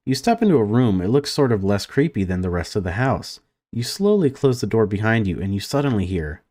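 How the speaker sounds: lively read-aloud of game text; story narration. A narrator's reading. Gamer reads entering a child's room, story narration. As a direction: narrate the scene with lifted openings to sentences.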